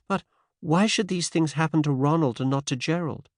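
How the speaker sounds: put-on faint transatlantic American accent; light American lilt, lifted pitch. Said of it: "faint transatlantic accent".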